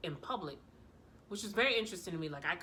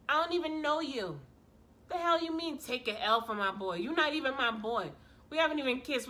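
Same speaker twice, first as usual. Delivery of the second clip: higher-pitched, indignant disbelief; flabbergasted; 4 semitones higher, 4 dB louder than usual. Retold or imitated. Retelling her refusal to a first date, flabbergasted. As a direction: push back in stunned outrage, pitch up. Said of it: "I'm, I'm flabbergasted".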